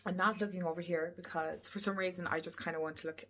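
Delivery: talking while chewing gum; words round a piece of gum. Real, not acted. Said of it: "I'm chewing gum".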